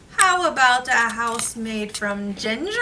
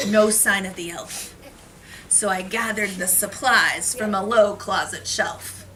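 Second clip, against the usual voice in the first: put-on reading to children. Reads picture book to class.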